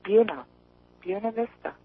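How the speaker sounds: "Buena" repeated as "BYOO-nuh"; corrected pronunciation. Retold or imitated. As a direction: try out "Buena Vista" as BYOO-nuh VIS-tuh. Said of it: "one of those obscure Southern renderings".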